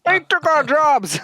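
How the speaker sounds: high, drawn-out redneck whine; hammed-up hick protest in a high voice. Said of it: "toothless people".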